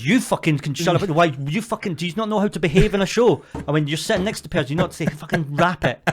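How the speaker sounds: high, indignant telling-off; retold rant. Comic berating audience members for behaviour, indignant retold rant. Retells ranting at the girls.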